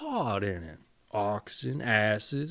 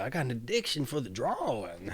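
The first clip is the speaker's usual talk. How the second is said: breathy whispered joke; whispered confession; 3 semitones lower, 7 dB quieter, faster than usual. Real, not acted. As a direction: whisper it like a secret. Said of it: "always out of breath here".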